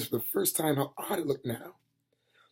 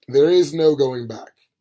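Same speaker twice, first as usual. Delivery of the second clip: slow, heavy Death; 9 dB louder, slower than usual. Acted.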